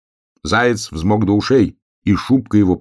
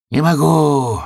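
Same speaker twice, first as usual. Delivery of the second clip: hoarse gasp; 8 semitones higher, slower than usual. A narrator's reading. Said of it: "прохрипел он".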